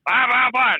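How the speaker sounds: mocking nagging woman. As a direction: mimic the pushy stranger at the bar, incredulous. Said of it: "is like".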